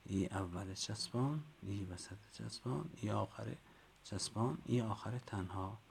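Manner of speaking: rising sing-song on each form; teacher recital. Shown as a demonstration. Teacher modelling the chant for colleagues to repeat. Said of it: "این جلسه خوندیم چی هست؟".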